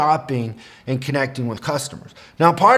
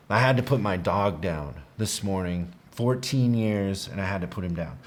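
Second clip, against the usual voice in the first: retold crying; 6 semitones lower, 6 dB quieter than usual. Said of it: "And she starts crying".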